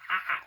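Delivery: a short, high mock alien screech; imitated alien screech. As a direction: toss off a quick high alien shriek. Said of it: "All you hear them going".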